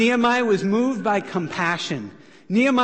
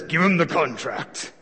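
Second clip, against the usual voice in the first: attempted Thorin accent; 4 semitones lower than usual. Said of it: "this is not my best accent".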